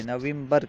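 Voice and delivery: نومبر said "naveembar", ee after the v; Persian pronunciation. Shown as a demonstration. Teacher repeating Persian November, Persian pronunciation. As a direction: put a long ee in نومبر. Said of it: "واو کے بعد یا بڑھا دیں".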